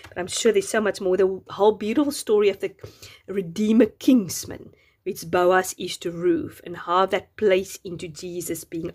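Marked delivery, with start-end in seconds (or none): 3.3-4.7 muttered slip. Real, not acted. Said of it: "um, kinsman redeemer".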